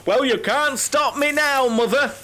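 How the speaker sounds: gleefully cheeky defiance through a laugh. Acted. Son defying his late mother over a pasty, laughing.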